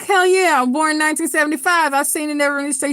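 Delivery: eager hell yeah. Retold or imitated. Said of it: "I was like".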